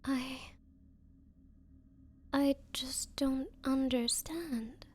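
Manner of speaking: soft, hurt whisper. Acted. Rejected woman to her date, hurt whisper. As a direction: barely whisper it, wounded.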